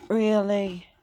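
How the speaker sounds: Really? pushed up in exasperation; loud disbelieving really. Real, not acted. Dirty speaker, repeated in disbelief.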